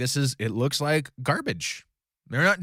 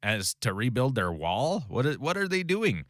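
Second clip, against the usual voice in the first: mocking jeer. Teacher voicing enemies who ridicule the wall, lightly mocking. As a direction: sneer at the builders, lightly. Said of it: "they're mocking".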